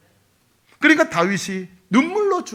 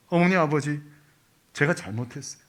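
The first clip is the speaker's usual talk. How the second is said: tearful plea; 6 semitones lower, 6 dB quieter than usual. Acted. Child begging parents forgiveness.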